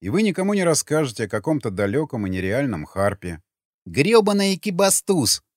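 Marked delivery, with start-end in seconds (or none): 3.9-5.4 exhaled curse. Acted. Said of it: "выдохнул Сквернослов".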